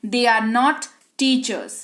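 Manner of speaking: slow, even, word by word; slow model sentence. Shown as a demonstration. Teacher modelling the English sentence slowly. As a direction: read it slowly so students follow. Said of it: "वे लोग शिक्षक नहीं हैं".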